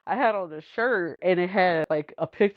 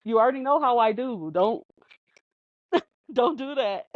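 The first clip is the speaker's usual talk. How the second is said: playful scolding; 4 semitones higher than usual. Retold or imitated. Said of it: "I'm like".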